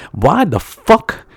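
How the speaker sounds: put-on slow, drawn-out toothless older man; toothless man impression. Toothless delivery man confronting the driver, imitated slowly. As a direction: imitate the cone complaint, stretching the words. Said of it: "when someone is toothless".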